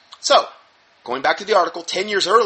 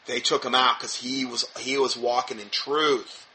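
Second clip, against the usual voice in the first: sarcastic; 4 semitones lower, slower than usual. Retold or imitated. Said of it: "Horn's pointing to that as".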